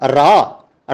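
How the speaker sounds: ਰਾਹ said as a long "raa", no "ho" ending; silent final aunkar. Shown as a demonstration. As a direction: end ਰਾਹ on the open "aa". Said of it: "ਉੱਥੇ ਨਹੀਂ ਬੋਲਦਾ". (ਰਾਹ ਨੂੰ "ਰਾ" ਵਾਂਗ, ਔਂਕੜ ਬਿਨਾਂ)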